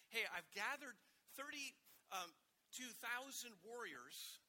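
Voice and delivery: mock-proud Gideon calling up to God; hammed-up call. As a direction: stretch it out like a proud herald.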